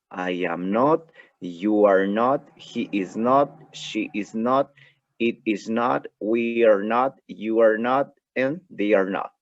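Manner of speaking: "I am not", "you are not" spelled out slowly, "not" rising; slow full negatives. Shown as a demonstration. Teacher slowly models negatives without contraction for class. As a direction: drag each "are not" out as separate words. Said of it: "sin contracción suena de la siguiente manera".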